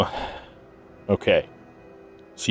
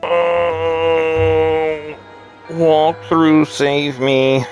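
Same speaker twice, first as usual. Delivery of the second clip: dramatic plea; 6 semitones higher, much slower than usual. Pretend. Stuck on puzzle, pleading.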